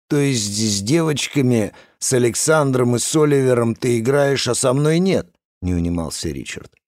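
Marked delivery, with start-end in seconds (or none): 0.1-5.3 whining. Acted. Richard pestering, not giving up.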